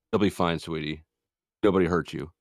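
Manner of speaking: lightly acted, easing a hurt child; gentle reassurance. Parent to fifteen-year-old daughter who feels hurt, gently reassuring.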